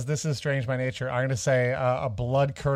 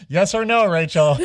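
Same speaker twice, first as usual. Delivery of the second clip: louder, insistent mock demand; pressing; 3 semitones higher, 6 dB louder than usual. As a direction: push her for an answer. Pressing a teasing question.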